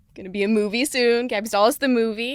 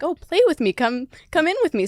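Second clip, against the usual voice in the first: put-on higher, inviting kids'-host voice; playful asking; 7 semitones higher than usual. Show host asking kids at home to play, higher inviting voice. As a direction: coax the viewer to join in. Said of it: "I'm asking, like".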